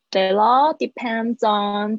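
slow "That all depends on" as "tha-law depend-zon"; slow model of linked "That all depends on"; linked words. Shown as a demonstration. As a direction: link "depends" into "on". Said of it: "depends on可以连在一起".

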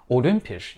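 "Olympisch" stressed on the second syllable. Shown as a demonstration. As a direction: put the weight on LYM in "Olympisch". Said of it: "在第二个音节".

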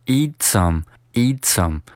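"eat some" run together, t joined to s; slow demo of linked "eat some"; linked reading. Shown as a demonstration. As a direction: link "eat some" as one word. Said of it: "连读成eat some".

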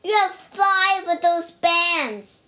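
loud, high teasing; gleeful taunt without actual laughter; mocking amusement. A narrator's reading. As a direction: crow over the bear's bands. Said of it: "he laughed".

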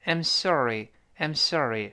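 "sorry" with a curled American r; curled-tongue r. Shown as a demonstration. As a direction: say "I'm sorry" with "I'm" brief and the r of "sorry" retroflex. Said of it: "注意卷舌哦".

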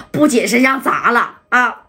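slow, tearful report; underling near tears reporting to boss; crying. Acted. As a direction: choke out the bad news. Panicked underling reports bad news.

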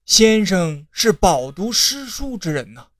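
a touch of feigned surprise on 先生; lightly marvel, stressing 先生 with a fall; mild surprise. Acted. Advisor feigning surprise at the scholar, lightly voiced. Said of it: "师爷惊讶地说".

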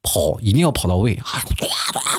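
ordinary talk, nothing marked

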